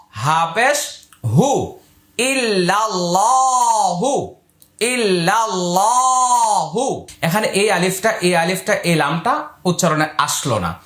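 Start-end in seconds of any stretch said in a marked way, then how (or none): 2.2-7.1 ইল্লাল্লাহু drawn out slowly, doubled lam held; slow recitation. Shown as a demonstration. Teacher modelling the word for students, slow chant. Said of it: "teacher models recitation".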